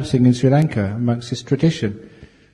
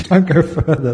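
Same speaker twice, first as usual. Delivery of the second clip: mock pleading; 3 semitones higher, 6 dB louder than usual. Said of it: "they say".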